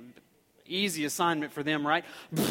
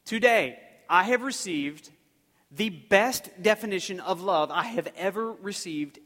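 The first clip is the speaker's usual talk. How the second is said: teacher's announcement; 3 semitones higher, 8 dB louder than usual. Retold or imitated. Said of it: "she said".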